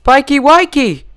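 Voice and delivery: high piercing scream of a name. A narrator's reading. Rarity finding Spike dead, screaming. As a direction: shriek his name in horror. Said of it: "she screamed".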